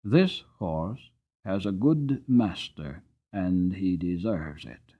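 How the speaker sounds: slow, gentle praise; quiet, pleasant. Acted. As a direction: murmur it kindly while patting the horse. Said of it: "saying in his quiet, pleasant way".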